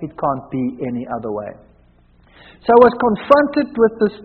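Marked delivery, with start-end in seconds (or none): 0.0-1.5 low, soft, resigned admission; quiet resignation. Retold or imitated. The visitors conceding as they leave, quiet and low. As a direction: concede it quietly, much lower. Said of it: "and say".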